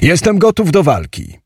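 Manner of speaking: high-pitched, eager challenge; bold call. A narrator's reading. Hero calls to the giant that he will fight, bold. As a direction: call it out boldly, without shouting. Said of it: "zawołałem".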